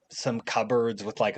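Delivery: ordinary delivery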